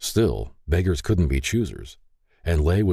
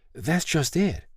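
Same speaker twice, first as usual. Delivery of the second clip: higher-pitched gentle protest; gentle explaining; 12 semitones higher, slower than usual. A narrator's reading. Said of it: "Mary gently explained".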